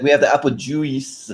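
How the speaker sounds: put-on drawn-out foreign accent, slow offer; Serge's accent. Serge offers a waiting guest a drink, foreign accent. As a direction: imitate a funny foreign-accented host, stretching the words. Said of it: "the way that he does the accent".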